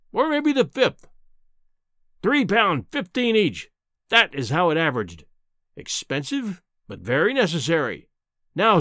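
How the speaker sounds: lightly voiced sinister professor; menacing professor. Professor's threatening speech.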